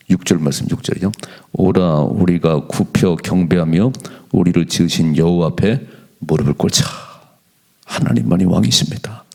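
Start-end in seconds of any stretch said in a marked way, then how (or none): 1.5-6.8 slow, lower, measured reading of the verse; scripture reading. Acted. Pastor reading Psalm 95 to the church, slow and solemn. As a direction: pastor reads the psalm slowly to the congregation, solemn.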